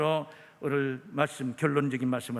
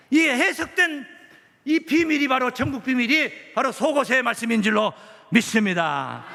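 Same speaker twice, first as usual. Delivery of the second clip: loud, insistent pulpit delivery; forceful preaching; 11 semitones higher, 8 dB louder than usual. Acted. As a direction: drive each phrase home to the congregation.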